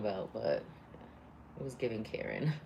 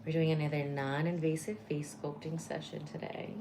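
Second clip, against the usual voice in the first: femme fatale; 4 semitones higher than usual. Acted. Spa treatment roleplay greeting.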